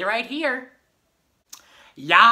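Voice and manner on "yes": excited yes. Acted. Excited yell at invitation to stay.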